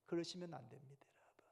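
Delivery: hushed, pleading whisper; whispered plea. Real, not acted. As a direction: gently beg them not to. Soft pastoral warning. (속삭이며 간곡히 당부하는 목소리)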